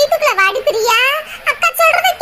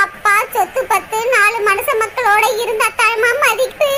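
put-on lower, subdued grieving girl; sad younger sister; 3 semitones lower than usual. Priya tells her sister she holds no grudge, subdued. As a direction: gently reassure while hurting.

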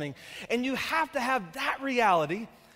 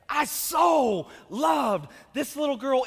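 preached shout; slower than usual. Real, not acted. Pastor preaching about his daughter, emphatic shout. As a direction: lean into so loved.

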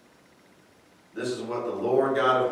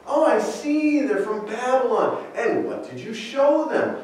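high, knowing mock surprise with a laugh; sarcastic prophet; 11 semitones higher than usual. Isaiah needling Hezekiah, laughing sarcastic surprise. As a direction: play dumb while you already know. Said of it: "in a sarcastic manner".

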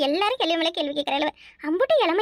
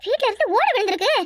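higher-pitched, startled exclaiming; alarmed shock; 4 semitones higher than usual. Acted. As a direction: cry out in alarm at a sudden crash. Startled by a roof tile crashing. (அதிர்ச்சியில் பதறும் உயர்ந்த குரல்)

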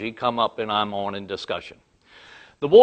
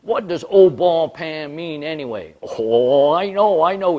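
louder and higher, answering himself; heated rant; 5 semitones higher, 6 dB louder than usual. Retold or imitated. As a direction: cut in on your own question, worked up. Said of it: "he was all upset".

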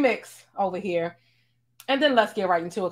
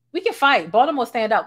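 a pumped-up, louder challenge with can stressed; 2 semitones higher, 5 dB louder than usual. Real, not acted. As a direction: puff up and push the word can. Jokingly challenging viewers to subscribe.

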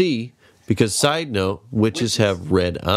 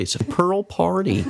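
laughing; 10 semitones higher than usual. Real, not acted.

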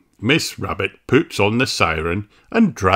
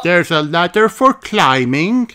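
high, bright greeting voice, a bit louder; a cheerful rabbit lady; Miss Rabbit; 10 semitones higher, 4 dB louder than usual. A narrator's reading. Miss Rabbit greets the children, high chirpy voice. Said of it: "says Miss Rabbit".

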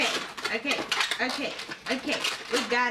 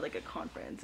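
whispered aside; 12 dB quieter than usual. Real, not acted. Aside while telling a story.

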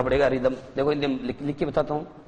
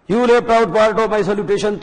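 haughty alien ruler; 6 semitones higher, 6 dB louder, much slower than usual. Acted. Teacher reads alien leader's line.

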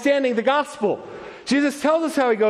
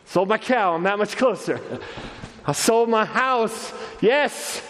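mildly acted happiness. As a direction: play someone getting happier with every sale. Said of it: "gets a little bit happier".

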